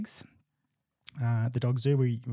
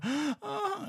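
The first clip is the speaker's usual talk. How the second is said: mock shock. Imitating people when the dog barks, mock shocked. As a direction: imitate someone taken aback, pitched way up.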